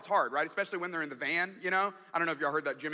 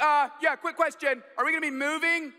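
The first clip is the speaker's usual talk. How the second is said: higher, louder reporter-style question; child questioning dad like a reporter; kid at press conference; 9 semitones higher, 6 dB louder than usual. Retold or imitated. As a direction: play the kid as an eager reporter. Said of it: "like a press conference".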